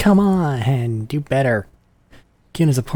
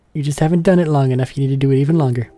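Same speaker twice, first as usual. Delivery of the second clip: put-on higher, louder bratty street kid; cocky kid Kuno; 3 semitones higher, 5 dB louder, faster than usual. Streamer voicing a cocky kid who shows off. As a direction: brag like a cocky little punk.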